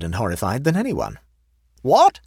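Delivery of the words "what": high, loud shout of outrage. A narrator's reading. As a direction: shout in disbelief like an outraged colonel. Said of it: "shouted Colonel Hampton".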